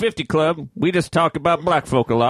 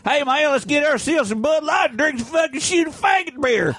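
put-on Southern hick accent; 11 semitones higher than usual. Mocking the Southern hick to his friends, high hollering Southern twang. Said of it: "the Southern hick".

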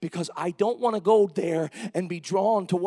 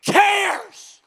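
"cares" high and loud, standing alone; stress on cares; 12 semitones higher, 11 dB louder than usual. Shown as a demonstration. Preacher emphasizing each word of the verse, big stress on "cares". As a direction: punch out "cares" by itself after a long pause. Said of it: "you emphasize each word of that".

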